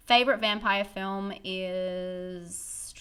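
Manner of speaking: slow, drawn-out spooky whisper. Pretend. Reading a viewer's vampire question to the chat, slow spooky whisper. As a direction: read the question like a secret.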